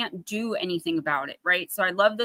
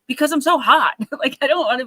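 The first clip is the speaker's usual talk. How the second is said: higher, louder, exasperated complaint; exasperated whine; 5 semitones higher, 5 dB louder than usual. Retold or imitated. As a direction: whine it like the heat is unbearable. Whining to husband about heat.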